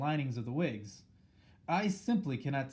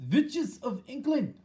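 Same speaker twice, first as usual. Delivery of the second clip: a slow, much higher, louder shout to the crowd; 11 semitones higher, 6 dB louder, slower than usual. A narrator's reading. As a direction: call the hall to order with a booming high cry. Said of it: "shouted the Grand High Witch".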